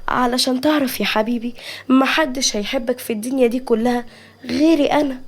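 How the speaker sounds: lightly acted scheming sorrow; sly sadness. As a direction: coax him with put-on sympathy. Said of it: "نجوى بخبث وحزن في نفس الوقت".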